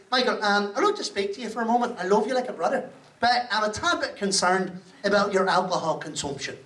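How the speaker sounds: softly spoken, lightly Irish concerned friend; a hint of a gentle Irishman voicing concern. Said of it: "he said".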